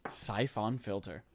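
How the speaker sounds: slow, soft echo of "Siphon" as SY-FON; imitated odd pronunciation. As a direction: mimic the odd "Siphon", both vowels full. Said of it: "You said it very weird".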